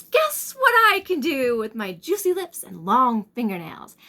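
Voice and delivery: a daughter springing from the dark, teasing; farmer's daughter voice. Acted. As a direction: leap out at him with a put-on teasing voice. Farmer's daughter jumps out at him.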